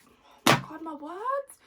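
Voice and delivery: tipsy squeal at her own slip; high giggly outburst over a fumbled word. Real, not acted. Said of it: "Me and my words when I've had a drink".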